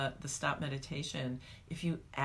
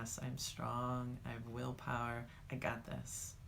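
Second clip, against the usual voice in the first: reflective mantra; 2 semitones lower, 5 dB quieter than usual. Shown as a demonstration. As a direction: speak it to yourself gently.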